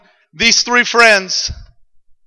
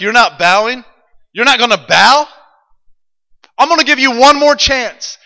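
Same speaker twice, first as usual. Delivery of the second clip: indignant king; 5 semitones higher than usual. Acted. Angry king confronts friends.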